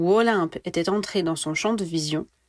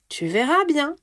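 higher, playful teasing; mischievous; 7 semitones higher than usual. A narrator's reading. Ginny teasing Harry, withholding the answer, higher and playful. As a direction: keep the secret with a grin. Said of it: "fit Ginny d'un air mutin".

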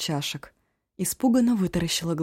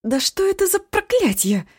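much higher, louder exasperated cry; flustered outcry; 14 semitones higher, 7 dB louder than usual. Acted. Flustered cook cries out at Eshu's antics. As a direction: throw up your hands at him. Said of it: "растерялась оба".

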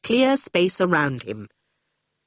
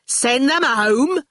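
slow, higher incredulous question; indignant exclamation; 6 semitones higher, slower than usual. Acted. Shine echoes Torquil's suggestion, exclaiming indignantly. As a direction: throw the suggestion back in disbelief. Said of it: "exclaimed Shine".

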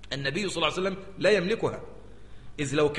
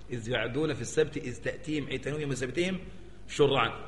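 building recitation. Shown as a demonstration. Verse recited again, rising.

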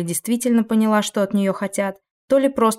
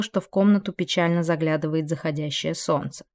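ordinary delivery, nothing marked

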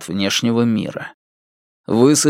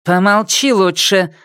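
a touch of a snarl, higher; snapping; 7 semitones higher than usual. Acted. Geng snapping at the parrot, mild snarl. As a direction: cut the parrot off sharply. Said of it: "окрысилась на него Гэн Лянь-Лянь".

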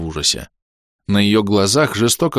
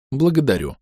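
a touch of a smile in the thanks; gentle smiling thanks; warm thanks; 5 semitones higher than usual. Acted. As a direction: thank him kindly. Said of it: "тепло улыбнулся я".

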